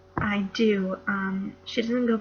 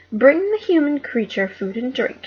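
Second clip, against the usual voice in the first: witch's command; 4 semitones higher, 9 dB louder than usual. Acted.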